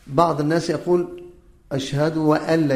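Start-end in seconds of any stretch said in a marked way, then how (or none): 1.7-2.8 "وألا" with a waw put before ألا; added waw. Shown as a demonstration. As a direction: slip a wa- sound in, saying "وألا". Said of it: "يضيف واو".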